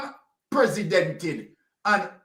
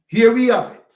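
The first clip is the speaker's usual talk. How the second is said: emphatic repeat; 8 dB louder than usual. Real, not acted. Repeats phrase, second louder.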